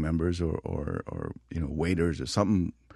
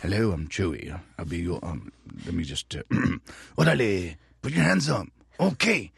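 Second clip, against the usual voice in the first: put-on English accent. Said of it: "I had an English accent".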